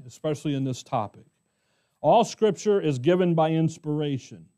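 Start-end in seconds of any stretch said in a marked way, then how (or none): 2.0-4.5 "All" leaned on at the start of the sentence, then falling; preacher stressing "All" for the whole Bible. Shown as a demonstration. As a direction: lean on "All" so it means every bit. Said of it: "Notice it's all".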